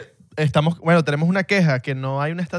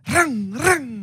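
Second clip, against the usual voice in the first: imitated revving, the second higher; engine rev; 11 semitones higher than usual. Guest imitates revving a Ferrari in neutral, engine sound. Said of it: "lo puse en neutro y".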